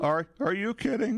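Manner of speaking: put-on the girlfriend again, voice brought down to medium. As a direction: pitch the girlfriend up, but only moderately. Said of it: "That's better".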